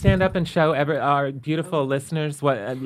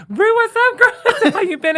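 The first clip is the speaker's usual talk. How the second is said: high, gushing hello; an excited high-pitched catch-up; overly familiar greeting; 3 dB louder than usual. Retold or imitated. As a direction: greet her like an old friend. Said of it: "And I was like".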